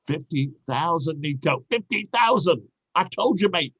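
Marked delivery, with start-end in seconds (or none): 1.7-3.7 excited. Acted. Excited boast about the bonus.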